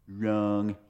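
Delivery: a light Trump-style "Wrong."; lightly voiced Trump, drawn-out "Wrong."; Trump impression. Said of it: "Let me see if I can do my Trump impersonation".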